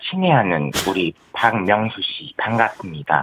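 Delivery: Park Geun-hye impression. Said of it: "박근혜 씨 한번 해볼래요?".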